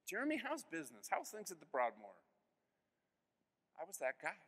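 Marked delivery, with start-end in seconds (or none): 0.1-2.2 imitating a chatty guest, higher and casual; lightly voiced funeral guest turning to business chat; breezy small talk. Guest at the funeral chatting up Jeremy, breezy and higher.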